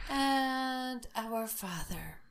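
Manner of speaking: breathy whisper, slow and reverent; whispered prayer. Real, not acted. Praying to protect the room, in a slow whisper. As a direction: whisper the opening of the prayer to ward off spirits. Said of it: "starts the Lord's Prayer in a whisper".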